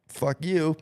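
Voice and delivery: put-on snapping a drunken curse; angry. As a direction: spit it at the bartender. Drunk friend cursing bar owner.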